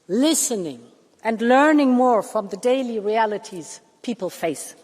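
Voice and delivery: normal talking voice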